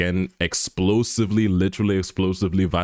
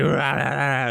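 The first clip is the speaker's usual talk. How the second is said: higher-pitched imitated growling yell; mock raging roar; 6 semitones higher, slower than usual. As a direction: imitate a chained-up hothead raging. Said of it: "he's there literally in chains 'cause he's like".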